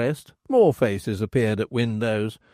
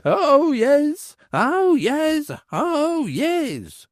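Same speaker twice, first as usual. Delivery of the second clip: high, ringing cry; crier shouting; much slower than usual. Acted. Crier swinging his bell, shouting out high. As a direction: belt out the oyez. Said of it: "swung the bell and shouted".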